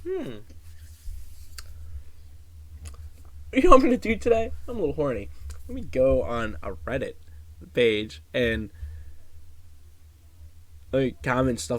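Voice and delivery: high, fast mocking voice of a creepy commenter; mocking a horny commenter. Vlogger mocks creepy Reddit commenter, high sneering voice. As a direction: sneer it out as a lecherous online creep. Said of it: "Who just goes online and goes".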